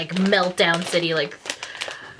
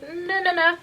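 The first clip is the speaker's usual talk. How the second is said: friend refusing; 11 semitones higher than usual. Retold or imitated. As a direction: back away, giggling. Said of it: "She's like".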